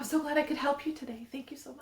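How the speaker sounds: politely put-on customer-service sign-off; courteous office voice, dropping very soft on the thanks; Harvard voice. Office worker thanking a caller, Harvard voice. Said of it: "That Harvard voice".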